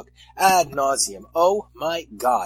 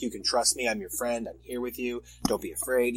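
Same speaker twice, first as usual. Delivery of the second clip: softer, lower mock reassurance; Logan, reassuring; 3 semitones lower, 7 dB quieter than usual. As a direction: gently soothe a frightened friend, acted lightly. Voicing Logan reassuring his friend.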